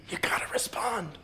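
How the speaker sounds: breathy whispered plea, stress on "respond"; whispered urging. Real, not acted. Preacher urging the congregation to respond, in a whisper. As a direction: drop to an intense whisper on "respond".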